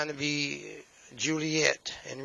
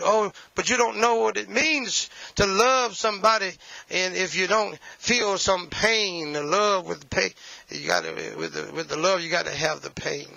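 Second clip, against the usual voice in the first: mocking romantic; 3 semitones higher than usual. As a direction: sigh it like a heartbroken lover, half in jest. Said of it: "I hear back from Romeo and Juliet".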